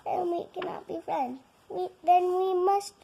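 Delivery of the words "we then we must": dramatic despair. Acted. Melodramatic farewell.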